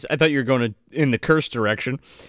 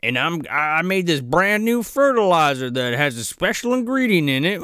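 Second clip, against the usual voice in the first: farmer Spivey; 3 semitones higher than usual. Retold or imitated. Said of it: "we get the lore bomb dropped of like".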